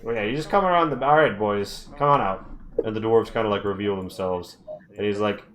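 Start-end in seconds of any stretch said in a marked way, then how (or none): 0.0-2.4 calling out. Acted. Dwarf calls out his men.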